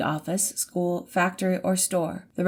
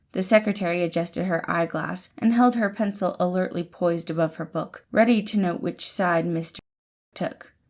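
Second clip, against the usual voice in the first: plain reading voice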